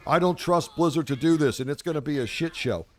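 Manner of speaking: a light mock of whiny doubters saying "I don't trust Blizzard". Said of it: "all these people saying".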